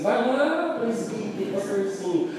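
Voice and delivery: imitação leve de zombaria; deboche da esposa. Retold or imitated. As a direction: um toque de ironia no diminutivo. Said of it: "ela fica dizendo assim". (esposa provocando na frente do apóstolo, leve deboche)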